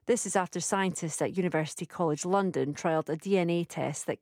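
crisp, measured bulletin delivery; news read. Acted. Presenter reading the hourly headlines to listeners, steady news read. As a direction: read the headlines like a radio newsreader.

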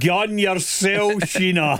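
slow, stretched-out fake Glaswegian; fake Glasgow accent. Guest repeating his cringey line on request, slow fake Glasgow accent. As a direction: draw out the put-on Glasgow patter. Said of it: "This is this fake Glasgow comment".

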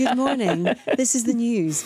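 a touch of a formal, proper news announcer; lightly imitating her stiff showreel read; old newsreader voice. Presenter mocks her own old showreel: mild newsreader voice. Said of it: "I'm speaking like that".

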